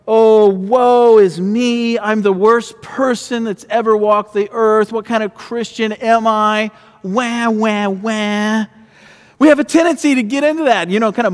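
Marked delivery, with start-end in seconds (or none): 0.1-6.7 dramatic sigh. Retold or imitated. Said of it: "we start to walk with our head down". 7.0-8.7 hammed-up mock wailing wah wah; mock whimpering like a crybaby; fake crying. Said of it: "we start to walk with our head down".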